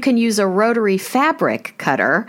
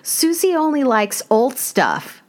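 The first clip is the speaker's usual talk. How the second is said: lightly imitated Southern drawl, pitched higher; half-attempted Southern drawl, voice raised; 7 semitones higher than usual. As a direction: quote her with a hint of a Southern drawl. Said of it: "she would say in her Southern drawl".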